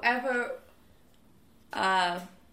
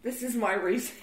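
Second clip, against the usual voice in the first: put-on British accent; playful British accent, measured and sure; 2 semitones lower than usual. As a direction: show off a practised British accent. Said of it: "I have this accent for a reason".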